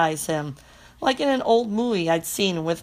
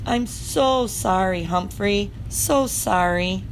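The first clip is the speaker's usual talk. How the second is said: soothing; slower than usual. Acted. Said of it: "Miranda's soothing words".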